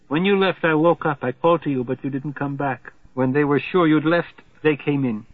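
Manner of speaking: a hint of a frightened lover clinging on; distressed Margarita. Margarita to Slothrop, who left her alone: mildly desperate. Margarita explains what happened.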